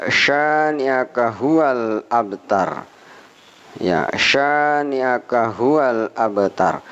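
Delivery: "abtar" with a clear qalqalah bounce on b; slow model reading. Shown as a demonstration. Teacher repeats the verse with qalqalah. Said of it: "saya ulangi".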